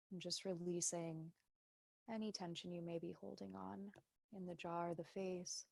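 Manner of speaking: softly spoken meditation guidance with long pauses; guided meditation. Real, not acted. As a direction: guide them gently into noticing the body. Leads a meditation.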